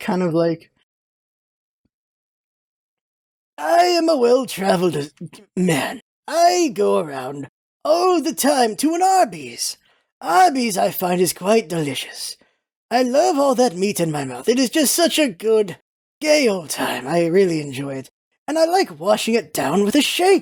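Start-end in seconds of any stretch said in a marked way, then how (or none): 3.6-20.4 put-on elderly gentleman's voice. Showing a voice they have always done, old man voice. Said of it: "like there's like an old man voice I've always done".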